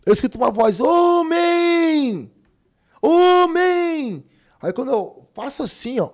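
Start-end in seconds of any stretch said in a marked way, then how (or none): 0.8-4.2 high loud prophetic shout. Retold or imitated. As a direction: call out to him from the pews. Woman shouting in church.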